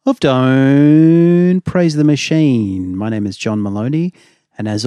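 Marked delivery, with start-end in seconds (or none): 0.1-3.0 announcer voice. Acted. Show title announced.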